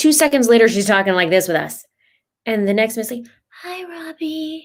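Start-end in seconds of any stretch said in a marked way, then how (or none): 3.5-4.7 really high, soft, breathy voice. Retelling how a girl greeted Robbie around men, in a really high, soft voice. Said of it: "her voice went like really high".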